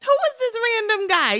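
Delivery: high, fast, incredulous mock question; suspicious onlooker. Most people questioning a random houseguest, high incredulous mock. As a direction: play the wary stranger wondering who he is. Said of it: "most people would be like".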